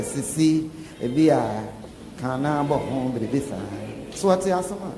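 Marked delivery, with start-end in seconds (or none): 0.0-3.6 hushed aside to wife. Retold or imitated. Husband hinting quietly to wife.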